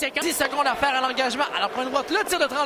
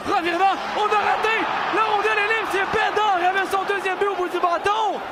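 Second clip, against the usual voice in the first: excited commentary; 4 semitones higher than usual. Real, not acted. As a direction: jump on the turnover. Sudden turnover chance.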